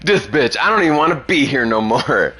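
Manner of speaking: kindergartner's mock attitude. Kid sassing the teacher about nap time, hammed-up. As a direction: play a fed-up kid muttering back. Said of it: "I'm like".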